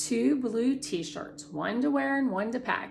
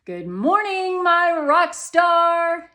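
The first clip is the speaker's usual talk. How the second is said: lightly voiced mother, higher, drawn-out and sung-out; a hint of a doting mom greeting her kid; Mom's greeting; 9 semitones higher, 10 dB louder, slower than usual. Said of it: "she greets me".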